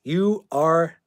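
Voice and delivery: loud umpire's out call. Retold or imitated. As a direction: yell it like an umpire ejecting a player. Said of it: "to quote the baseball player".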